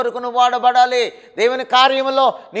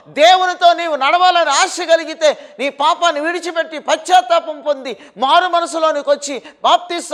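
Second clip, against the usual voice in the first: louder and higher line by line until a near shout; preacher climbing to a shouted climax; building fiery preaching; 6 semitones higher, 6 dB louder than usual. Acted. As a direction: hammer each repeated phrase home, rising to a cry. Preacher escalates repeated promises.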